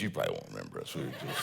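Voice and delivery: words breaking up into laughter; barely holding back a laugh; laughing through it. Real, not acted. Pastor fibbing to diners about being famous, laughing.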